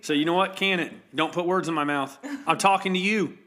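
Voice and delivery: loud, high comic protest; hammed-up outraged self-defence; mock indignation. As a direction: rant defensively at an imaginary accuser. Mock protest to accusing listeners.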